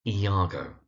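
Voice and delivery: Iago said slowly as ee-AH-go; careful, slow ee-AH-go for Iago; correct pronunciation. Shown as a demonstration. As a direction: draw out Iago with an "ee" start. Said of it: "his name is Iago".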